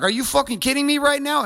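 high-pitched incredulous anger; retold outrage. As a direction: re-enact indignant disbelief. Acted outrage in retold quarrel.

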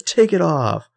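high, demanding mock shout; mock angry order. Arya ordering the villain to unmask, high mock demand. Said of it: "And Arya's like".

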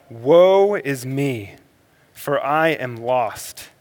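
slow, drawn-out lament; Isaiah's slow cry of anguish; crying out in woe. Retold or imitated. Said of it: "Isaiah cries out".

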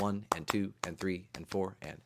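soft low count; counting the beats. Shown as a demonstration. Teacher counting hornpipe beat, soft and low. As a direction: count one and two and quietly. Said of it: "short, long, short".

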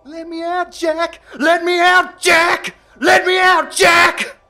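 screaming imitation of a trapped girl; mocking. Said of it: "insane pounding".

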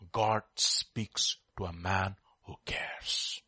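slow, breathy whispered truth. Real, not acted. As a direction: whisper it slowly for weight. Whispered key lesson.

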